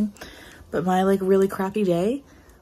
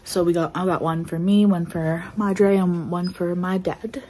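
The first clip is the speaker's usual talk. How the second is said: breathless, gulping air between words; out of breath. Real, not acted. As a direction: talk while still catching your breath. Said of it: "I don't know why I'm out of breath".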